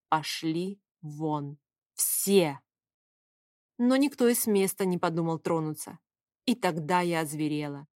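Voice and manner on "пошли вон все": slow, hoarse and low, drained of voice; hoarse croak. A narrator's reading. Crying heroine croaks at the men to get out, slow and hoarse. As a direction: rasp it out, too worn to shout. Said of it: "просто прохрипела".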